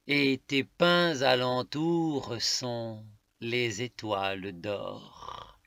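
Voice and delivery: emphatic, deliberate poetic declamation; poem recitation. Acted. Reading a love poem to listeners, emphatic recitation. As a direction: declaim it phrase by phrase, leaning on key words.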